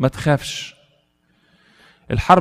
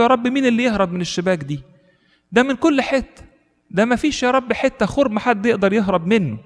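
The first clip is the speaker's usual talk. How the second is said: retold cry to God, higher but not shouted; alarmed cry; 7 semitones higher than usual. Monk crying out to God at the devils' nets, mild retold alarm. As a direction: imitate a startled plea, pitch raised. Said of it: "فاتخض وصرخ لربنا".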